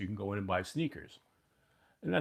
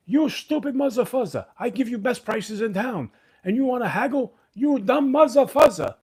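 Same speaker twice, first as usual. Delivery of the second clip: much higher and louder, mock Jewish accent tirade building; heavy Jewish accent ranting; 13 semitones higher, 9 dB louder than usual. Shoe seller berating haggling customers, loud mock Jewish accent. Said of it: "he had a very big accent".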